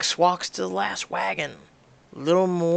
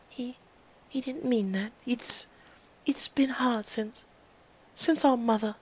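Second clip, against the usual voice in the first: sad; 5 semitones higher, 3 dB quieter than usual. Acted. Rose grieving their mother.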